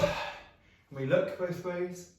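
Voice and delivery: drawn out slowly, looking both ways; slow careful look. Shown as a demonstration. Teacher slowing the class at the road, slow careful words. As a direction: take your time over each word. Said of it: "children's road safety".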